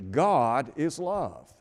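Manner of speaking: GOD IS LOVE slow and weighted; slow right down, giving each word of "God is love" weight; "God is love" drawn out with measured emphasis; emphatic. Retold or imitated. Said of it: "said in a very emphatic way".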